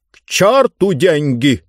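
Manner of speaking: pompous ruler refusing grandly; dismissive exclamation. Acted. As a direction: brush the offer aside imperiously. Ruler rejects the offered money.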